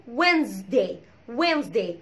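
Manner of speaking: "وينزداي" as WENZ-day, s as z; silent d Wednesday. Shown as a demonstration. Teacher showing the rule, "وينزداي" as WENZ-day. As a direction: model "وينزداي" without the first d. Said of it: "كلت الدي خالص".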